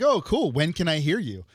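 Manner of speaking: bright high date voice; high excited chatter. Retold or imitated. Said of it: "I'd just be like".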